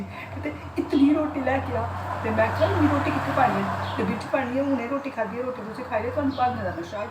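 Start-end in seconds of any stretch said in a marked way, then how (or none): 0.8-1.9 higher and louder, a mock tipsy shout; wife imitates her tipsy husband calling for rotis, high and loud. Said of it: "ऐसे ही करके कहते". 2.7-7.1 mock scolding. Wife scolding drunk husband.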